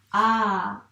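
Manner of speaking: a lancé fort; sound isolated. Shown as a demonstration. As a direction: marquer le a. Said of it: "on écrit le". (son a bien net)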